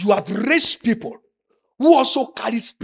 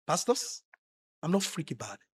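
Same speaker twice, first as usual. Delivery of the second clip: imitating the lady; 3 semitones lower, 9 dB quieter than usual. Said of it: "The way she talks".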